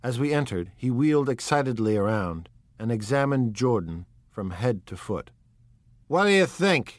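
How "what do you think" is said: high, eager, pushy question; impetuous demand. A narrator's reading. Drunk guest presses Jordan, impetuous and demanding. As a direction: blurt it out impatiently. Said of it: "he demanded impetuously".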